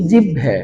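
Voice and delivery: জিহ্বে with doubled b and final e; variant mispronunciation. Shown as a demonstration. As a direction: say জিহ্বে as "jibbhe", ending in e. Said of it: "কেউ কেউ বলি".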